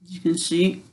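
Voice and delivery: talking around a needle held in the mouth; cheeks stuffed full. Real, not acted. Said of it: "talking with my mouth full".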